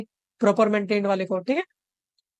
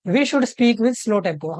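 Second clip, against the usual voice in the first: slow dictation; much slower than usual. Shown as a demonstration. Reads the key sentence slowly.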